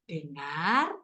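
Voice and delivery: low, drawn-out storybook cue; reading to children. Shown as a demonstration. Teacher reading a story cue to listeners, slow and rising. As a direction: stretch it into an inviting rise. Reads picture book aloud.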